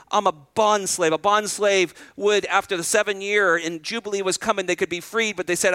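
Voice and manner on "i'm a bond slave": slow and humble. Retold or imitated. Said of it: "I imagine she said in the most humble way".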